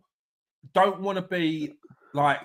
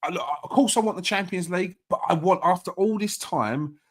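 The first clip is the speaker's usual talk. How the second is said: eyes closed, yearning for the trophy; dreamy longing; 3 semitones lower, 3 dB quieter than usual. Retold or imitated. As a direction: say it like you can taste it. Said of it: "I'm like".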